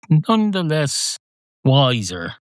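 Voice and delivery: "Nonetheless" high and drawn out, pause, then "wiser"; "Nonetheless ... wiser", slow and separated; deliberate pause. Acted. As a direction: split "Nonetheless" from "wiser" with a weighty gap. Cat delivers word with deliberate pause.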